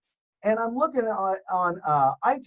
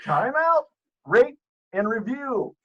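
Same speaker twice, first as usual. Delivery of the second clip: announcer promo; 3 semitones higher than usual. Pretend. Guest plugging the Chewy Show, announcer promo.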